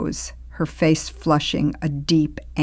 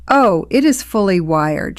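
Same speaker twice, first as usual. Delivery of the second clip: light, airy and a little higher; breezy; 4 semitones higher, 5 dB louder than usual. A narrator's reading. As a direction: toss it off breezily. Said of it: "she replied breezily".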